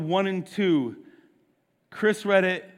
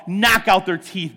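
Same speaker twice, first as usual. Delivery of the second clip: fervent cry; 4 dB louder than usual. Acted. Preacher praying the psalm aloud, loud fervent plea. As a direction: Knock out their teeth, cried out loud and firm.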